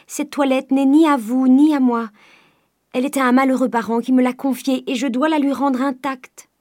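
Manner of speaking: high, loud, desperate plea; pleading cry. A narrator's reading. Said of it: "cria Eugénie en se jetant à genoux". (supplication criée, voix haute et forte)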